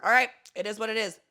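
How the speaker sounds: loud, brisk dismissal; sassy so-what send-off; done caring. Shown as a demonstration. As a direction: brush it off and move on, emphatically. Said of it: "you don't give a fuck anymore".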